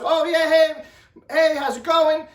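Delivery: acted-out friendly hello from mom; happy cheerful greeting. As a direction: greet them breezily, as a nice mom would. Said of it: "you know, happy, cheerful".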